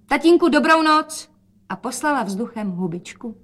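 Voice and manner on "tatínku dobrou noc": higher, louder excited call. Acted. Rozetka calls out that the taxi is here. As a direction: call it out happily.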